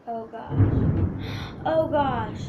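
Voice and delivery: loud strained gasp; straining after burps. Real, not acted. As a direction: croak it out after burping.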